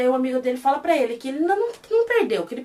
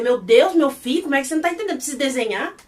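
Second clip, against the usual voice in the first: fast, exasperated outburst; 3 dB louder than usual. Retold or imitated. Vlogger venting at the character, exasperated and fast. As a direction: rattle it off in disbelief at him. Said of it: "que eu falei".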